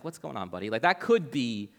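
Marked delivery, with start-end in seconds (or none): 0.0-0.7 low, soft, friendly check-in; caring. Retold or imitated. Jesus checking on Peter as a buddy, gently caring. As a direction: drop down soft, like asking a pal. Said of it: "a caring statement in the right context".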